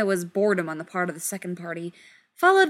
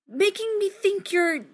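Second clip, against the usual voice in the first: miserable and confused; 10 semitones higher, 8 dB louder, slower than usual. Acted. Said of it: "Rodney felt miserable and completely confused".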